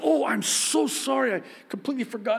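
mock apology. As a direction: play up the flustered sorry. Retold apology to cashier.

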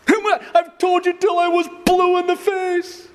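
very high, scolding mom voice; a fed-up mother's high nag; nagging mom. Retold or imitated. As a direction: pitch it way up like an exasperated mother. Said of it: "My mom with her thick Arab accent, in that high-pitched tone".

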